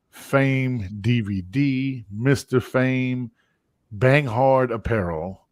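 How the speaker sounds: slow, drawn-out sponsor announcer voice; mock commercial read. Host reading the show's sponsors, slow ad voice. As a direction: spell out each sponsor name like an ad. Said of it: "I just wanna give a commercial break".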